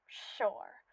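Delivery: breathy whispered concession; whispered aside. Acted. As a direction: drop to a sly whisper.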